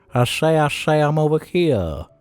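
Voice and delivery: cartoon rooster Southern American drawl. Showing how a Southern accent says here: Foghorn Leghorn voice. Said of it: "the W B Chicken".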